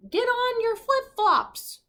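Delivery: high, slow, squeaky voice; misheard order. Acted. Crew hearing the captain's order wrong, high and slow. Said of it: "the crew heard".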